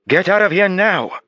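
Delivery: very high, loud, slow yell. Acted. Therapist yelling at the police to leave, loud yell. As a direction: drive them out with a scream. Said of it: "Doctor Cassidy yelled loudly".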